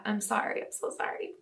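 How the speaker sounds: hoarse, worn-out voice, almost gone; raspy voice. Real, not acted. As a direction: speak through a raspy, tired throat. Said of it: "Please excuse my raspy voice".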